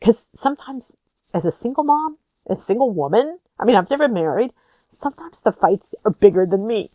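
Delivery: tearful, breaking voice. Speaker apologizes for crying while telling her story: crying, voice breaking. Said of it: "I don't know why I'm crying".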